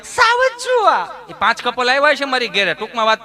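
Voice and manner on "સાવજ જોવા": very high, slow and drawn-out; mock tourist. Tourist answers the host, very high and slow. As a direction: stretch it out like a prissy visitor.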